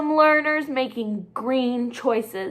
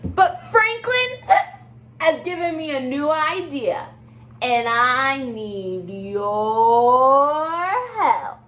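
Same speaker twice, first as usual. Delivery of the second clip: bright, chatty penguin voice with hiccup fuss; excitable Little Penguin; 3 semitones higher, 4 dB louder than usual. Acted. Teacher reading aloud as Little Penguin to her class. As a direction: play the fretful little penguin.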